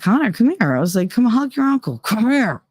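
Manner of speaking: put-on high, pleading coax to the child; coaxing mom. Mother coaxing her son to hug his uncle, high and pleading. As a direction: sweetly urge him over, forcing it.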